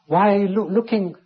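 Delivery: pleading cry. Acted. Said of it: "he says".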